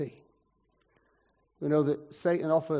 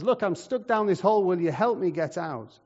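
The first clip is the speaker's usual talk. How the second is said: mildly raised, higher plea from a hole; calling for help; 3 semitones higher than usual. Acted. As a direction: call up for rescue, lightly acted. Trapped man calls up for help.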